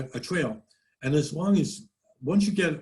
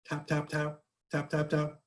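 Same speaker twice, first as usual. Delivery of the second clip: soft little taps; 6 dB quieter than usual. Retold or imitated. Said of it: "just a little minor little tap".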